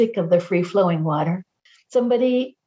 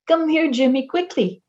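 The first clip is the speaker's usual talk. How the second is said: vireo call imitation; 6 semitones higher than usual. Speaker imitates the solitary vireo's call, pitched up. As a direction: Come here, Jimmy sung higher like a bird. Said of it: "the solitary vireo calls".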